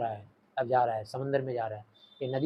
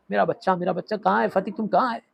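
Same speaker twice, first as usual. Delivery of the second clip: mock frantic mother; 5 semitones higher, 3 dB louder than usual. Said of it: "जोर से रोते चिल्लाते".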